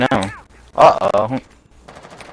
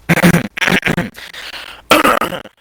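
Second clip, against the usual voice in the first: showy throat clearing; 8 semitones higher than usual. Pretend. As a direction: clear your throat elaborately before performing. Preparing a sexy reading voice.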